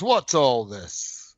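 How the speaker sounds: slow, drawn-out British bobby; British cop. Retold or imitated. Man imitating a British cop's classic line, slow and stern. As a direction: draw it out like a stuffy London constable. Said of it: "a British cop goes".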